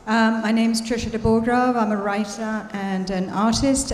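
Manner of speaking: talking around a piece of gum; words a little mushy from the gum; chewing gum. Real, not acted. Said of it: "I've got gum in my mouth".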